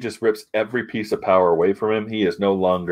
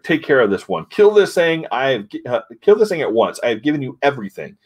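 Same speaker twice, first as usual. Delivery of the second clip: mock outraged order; 5 semitones higher than usual. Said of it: "He's like".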